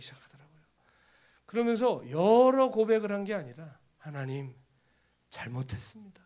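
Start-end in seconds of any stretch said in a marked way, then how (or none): 4.0-6.2 mock-weeping plea to God, building; imitated crying repentance; retold tearful confession. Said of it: "하고 우는데".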